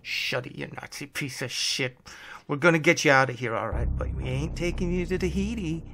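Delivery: tough, growled threat. Acted. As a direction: growl it at the prisoner with contempt. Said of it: "with a growl of".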